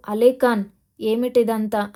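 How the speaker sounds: a sharp call on the name, then the question; loud demand. Acted. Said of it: "అని గట్టిగా అడిగాడు".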